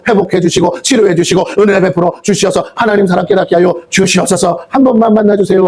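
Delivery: driving, unbroken intercession; fervent prayer. Shown as a demonstration. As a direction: pour out a pleading prayer without letup. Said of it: "하고 기도해야 되는 게".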